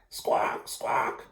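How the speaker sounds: breathy soft penguin squawks. Acted. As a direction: answer the egg like a parent penguin calling. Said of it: "Roy and Silo called back".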